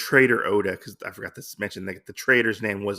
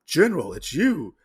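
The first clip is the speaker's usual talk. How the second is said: mild acted astonishment, slightly raised pitch; gasping surprise; 4 semitones higher than usual. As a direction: recognize someone in mock amazement. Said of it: "Lady Asano is a gasp".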